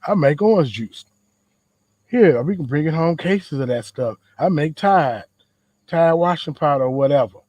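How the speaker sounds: lightly voiced proud granddad, firmer; granddad voice, retried. Granddad tells grandkid what he makes, lightly voiced and emphatic. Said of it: "That's not my granddad voice".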